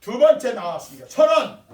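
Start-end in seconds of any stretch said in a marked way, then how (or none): 1.1-1.6 high, loud prize call; announcing a prize. Real, not acted. Pastor announces second-place prize to children, calling out. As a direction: proclaim it like a game-show host.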